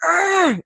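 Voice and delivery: high, loud frustrated yell; frustrated scream. Shown as a demonstration. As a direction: let out a sharp frustrated scream. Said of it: "I literally will scream if I need to".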